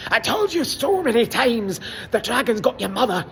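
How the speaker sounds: put-on Scottish brogue, telling the son off; mock Scottish dad. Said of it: "Gerard was like".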